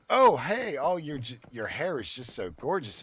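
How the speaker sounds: high, loud mock gushing over a toddler; gushing stranger. Mocking a random stranger admiring a toddler's hair, high and gushing. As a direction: overdo the syrupy stranger fawning. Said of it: "just be like".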